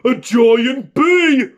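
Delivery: slow, high frightened shout; terrified shout. Acted. Scared bear shouting as it flees. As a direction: cry out in terror. Bear fleeing the giant bee.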